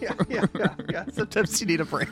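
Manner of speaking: talking around an ice cube; words round a mouthful of ice. Real, not acted. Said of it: "I have an ice cube in my mouth".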